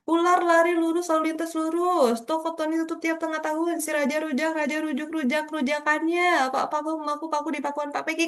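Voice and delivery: level, unbroken tongue-twister recitation; tongue-twister drill. Shown as a demonstration. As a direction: run through tongue twisters evenly, without pauses. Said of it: "coba membaca satu kalimat".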